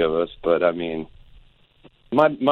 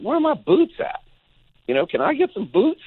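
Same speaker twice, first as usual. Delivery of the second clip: mock whining; 3 dB louder than usual.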